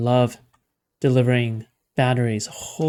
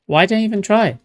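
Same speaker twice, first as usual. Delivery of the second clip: "Why did I even try?" higher and louder in exasperation; exasperated yell; 6 semitones higher, 4 dB louder than usual. Real, not acted. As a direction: throw up your hands and yell "try". Repeats line, second time louder.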